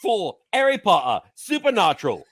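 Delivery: a light put-on British accent for the sponsor read. Podcast host reads the sponsor ad in a British accent. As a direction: read the ad like a cheerful Brit. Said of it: "you went with the British voice".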